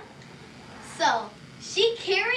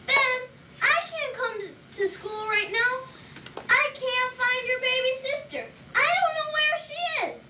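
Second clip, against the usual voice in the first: frantic mom; 8 semitones higher than usual. Acted. Mom panicking on phone.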